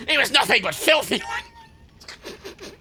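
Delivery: very slow, high, prim complaining voice; mock outraged mother. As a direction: drag it out like a scandalised mum. Mocking the annoyed mother review.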